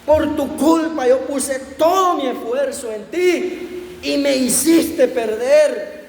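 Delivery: scolding the animal, slowing on the blame; a bitter, drawn-out reproach; angry scolding. Acted. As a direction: owner scolding the donkey for losing everything. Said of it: "lo regañaba".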